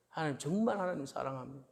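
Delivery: acted declaration of love, starting hushed and swelling; earnest confession. Worshipper confessing love to God, earnest confession. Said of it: "라고 고백할 수 있습니까".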